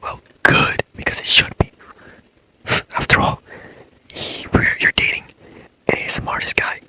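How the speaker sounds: breathy ASMR whisper, close to the mic; whisper talk. Acted. ASMR boyfriend comforting a sleepless girlfriend, whispering. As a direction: hush it like a boyfriend soothing her to sleep. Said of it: "like, whisper talk".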